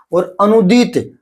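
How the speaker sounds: अनुदीत with a long, drawn-out ii; long vowel. Shown as a demonstration. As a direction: slowly lengthen the ii of अनुदीत. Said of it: "तो वो होता है अनुदीत". (अनुदीत में बड़ी ई खींचकर, धीरे)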